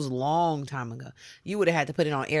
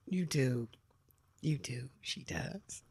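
whispered teasing aside; stage whisper to listeners; 4 semitones lower, 9 dB quieter, slower than usual. Real, not acted.

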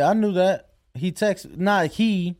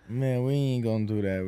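low mock refusal; 7 semitones lower, 6 dB quieter than usual.

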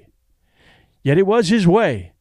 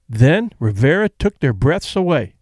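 ordinary delivery

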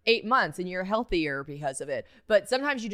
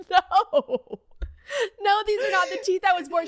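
emphatic denial; 12 semitones higher, 4 dB louder than usual. Retold or imitated. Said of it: "And I was like".

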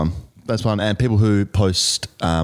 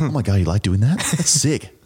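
higher, hammed-up mate's reaction; mock excitement; 3 semitones higher than usual. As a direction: play a gushing mate, tongue in cheek. Mocking mates' reaction to cringe.

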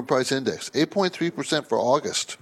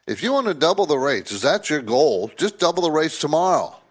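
mock advice to Fed; 3 dB louder than usual. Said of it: "a good argument saying".

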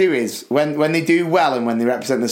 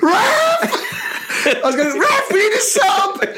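high shout across the pitch; calling the ref. Retold or imitated. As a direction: call out to the referee. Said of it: "And I was like".

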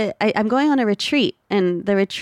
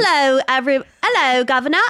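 playful mock East End Cockney greeting through a laugh; Cockney accent; 4 semitones higher, faster than usual. Trying the suggested stage opening line, laughing Cockney. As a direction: try on a Cockney opener, laughing. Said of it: "your opening line is like".

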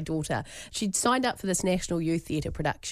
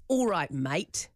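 derogatory; 3 semitones lower, much slower than usual. Shown as a demonstration. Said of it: "That sounds very derogatory".

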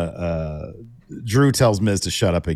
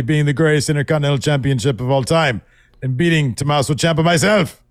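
higher, louder, fast angry mock rant; mock Gunther rant; 8 semitones higher, 4 dB louder than usual. Gunther chewing out Kaiser, hammed-up shouting. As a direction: scold like a furious boss. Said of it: "Gunther screams".

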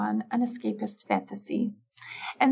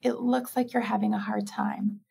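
kind, gentle. Shown as a demonstration. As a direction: ease into gentleness after the firmness. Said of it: "move right into kindness".

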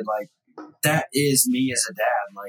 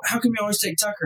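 daughter's voice; 7 semitones higher, faster than usual. Retold or imitated. Six-year-old daughter voiced pleading.

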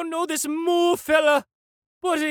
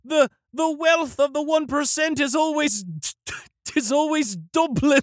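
put-on Liverpool accent. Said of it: "He's talking like he's from Liverpool".

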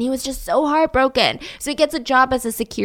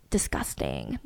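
sarcastic disgust; 12 dB quieter, slower than usual. Acted. Sarcastic mock disgust at independence.

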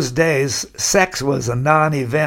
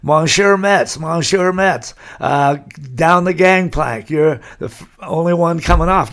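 put-on French accent; 2 semitones higher than usual. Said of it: "in broken English, French accent".

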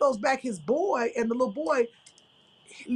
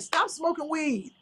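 scolding auntie; 5 semitones higher, slower than usual. Retold or imitated. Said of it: "I was yelling at him like a straight auntie".

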